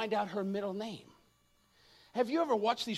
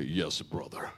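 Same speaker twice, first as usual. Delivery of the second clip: lifeless Christian; 4 dB quieter, slower than usual. Retold or imitated. Preacher mocks churchgoers answering with dead, lifeless voice. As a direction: drop way down into a dead, toneless yes. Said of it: "it's death personified".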